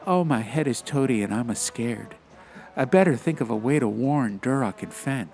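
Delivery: put-on a high, childlike thought aloud; lightly voiced scared little girl. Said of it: "thought Anju".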